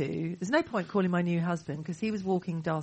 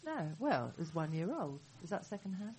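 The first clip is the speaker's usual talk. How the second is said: muffled, as if through a wall; dull, far-off muffled sound; 9 dB quieter than usual. Real, not acted. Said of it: "I'm very muffled".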